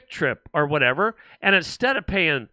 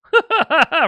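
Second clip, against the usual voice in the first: high, loud mock laugh; scoffing laugh; 10 semitones higher, 5 dB louder than usual. Host answering people who deny lotto purchases, scoffing laugh. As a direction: laugh it off in disbelief.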